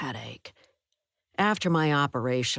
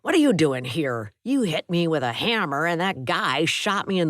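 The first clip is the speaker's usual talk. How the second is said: a touch louder, gruff and resentful; gruff, lightly angry roommate; 3 dB louder than usual. Acted. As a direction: growl him off, mildly bitter. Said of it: "in a gruff voice".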